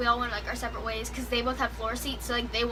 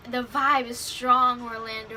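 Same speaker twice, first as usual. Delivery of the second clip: imitating the singer; 6 dB louder, slower than usual. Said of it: "he goes".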